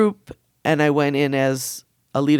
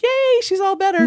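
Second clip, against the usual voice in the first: higher, louder playful group cheer; mock cheer; 4 dB louder than usual. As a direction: tease her like cheering a child. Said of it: "everybody was like".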